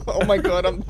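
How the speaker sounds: amazed and cracking up, slowing at the end; laughing disbelief. Real, not acted. Telling a friend who flung them, laughing disbelief. Flung through the game world.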